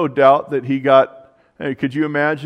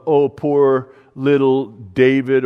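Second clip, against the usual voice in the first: mock pity; 4 dB louder, slower than usual. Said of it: "it's not a pity of".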